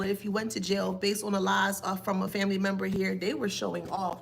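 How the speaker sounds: ordinary delivery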